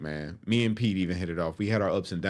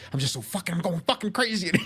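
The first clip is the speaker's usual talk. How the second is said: imitated losing it; 9 semitones higher than usual. Locked-in inmate losing his mind, imitated rising breakdown. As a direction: pitch climbing into mock breakdown. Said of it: "he's losing it".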